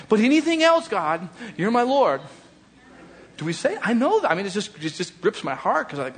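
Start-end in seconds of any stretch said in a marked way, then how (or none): 0.1-2.2 louder, much higher, hammed-up devotion; mock grand declaration. Pastor mocking a reluctant believer's showy vow, louder and higher.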